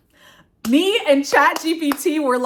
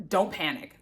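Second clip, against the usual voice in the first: low, soft "don't panic" under the breath; calm yourself down quietly; softly telling yourself "don't panic"; hushed self-talk; 4 semitones lower, 5 dB quieter than usual. Retold or imitated. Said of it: "And I'm like, "Oh my God".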